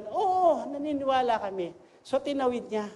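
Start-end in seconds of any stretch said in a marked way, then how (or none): 0.1-1.7 with conviction. Retold or imitated. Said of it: "talagang with conviction".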